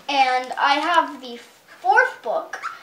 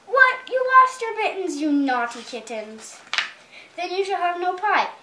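mock scold the naughty kittens; mother cat in the story scolding her kittens; 3 semitones higher than usual.

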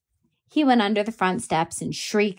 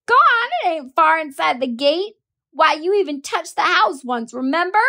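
daring taunt; 8 semitones higher, 5 dB louder than usual. Acted. Scout daring Jem.

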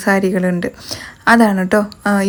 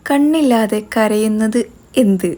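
slow riddle asking; slower than usual. Shown as a demonstration. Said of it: "കുസൃതി ചോദ്യം ഞാൻ ചോദിക്കട്ടെ".

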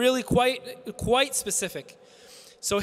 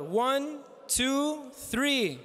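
calling out to crowd; 3 semitones higher, much slower than usual. Real, not acted. Counting crowd into a chant.

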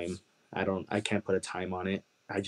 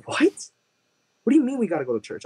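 higher, louder and fast, disbelieving; incredulous girlfriend; 13 semitones higher, 6 dB louder than usual. Retold or imitated. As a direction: fire it back in disbelief. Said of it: "She said".

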